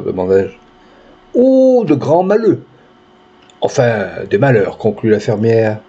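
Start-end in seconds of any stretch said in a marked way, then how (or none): 1.3-4.8 curt tone. Acted. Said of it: "d'un ton net".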